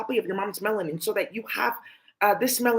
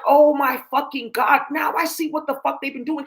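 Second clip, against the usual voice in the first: shocked outcry; 4 semitones higher, 5 dB louder than usual. Retold or imitated. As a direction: drag out the shock, then rise on the realisation. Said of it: "And I was like".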